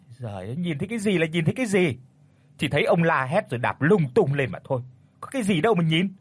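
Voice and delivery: fast, impatient brushing off; exasperated wife. Acted. Wife brushes off her husband's fright, exasperated. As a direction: wave away his nonsense.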